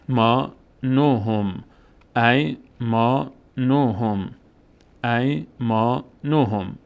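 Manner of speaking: ای ما نوهم read slowly with the long a of ما held; slow teacher reading; slow recitation. Shown as a demonstration. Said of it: "ساکنش افتاده".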